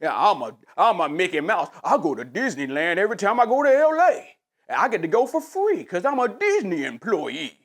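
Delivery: mock company man. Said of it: "Am I out here being like".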